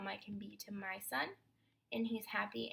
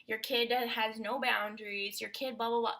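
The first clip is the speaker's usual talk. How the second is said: mock criticism; 5 dB louder than usual. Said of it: "came up to you and said".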